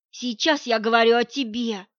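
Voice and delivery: husband answers harshly and coldly; hard and cold. Acted. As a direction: cut her off coldly. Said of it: "жёстко и холодно бросал".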